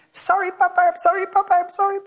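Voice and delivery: put-on a two-year-old running to grandpa, sorry; little child pleading.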